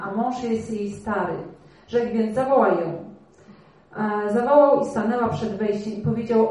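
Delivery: measured, slightly lifted reading of the Bible story; scripture reading. Acted. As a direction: read it as a story to the congregation. Reads the Bible passage aloud. (czytanie Pisma Świętego na głos)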